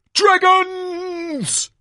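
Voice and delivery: very high, loud drawn-out cry; hammed-up showman shout; announcer's big reveal. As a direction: burst out with the grand reveal.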